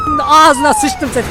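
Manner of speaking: shrieking high-pitched curse; high yell. Pretend. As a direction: scream it high. Truck hits him, yelling.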